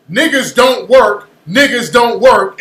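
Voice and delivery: slow, emphatic mock quote of the caller. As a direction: throw the caller's claim back, slowly and pointedly. Throws caller's claim back.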